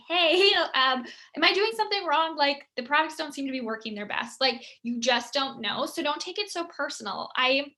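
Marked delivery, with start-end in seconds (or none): 0.1-4.4 friendly question. Retold or imitated. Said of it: "it might be more like".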